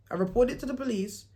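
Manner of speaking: chuckling at your own bluff; laughing repeat. Real, not acted. Vlogger to viewers, laughing at the lie she told. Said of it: "I made up a whole lie".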